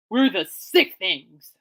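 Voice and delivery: slow, loud mock band intro; Bemidji-free stage shout, hammed up; band announcer. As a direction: announce the band like a rock frontman. Pitching a band name.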